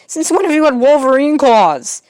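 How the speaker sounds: surprised high voice. Acted. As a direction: gasp it out in disbelief. Surprised at claws.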